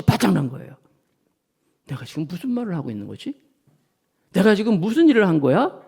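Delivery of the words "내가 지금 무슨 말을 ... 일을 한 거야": Peter realizing. Acted. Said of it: "라고 하면서".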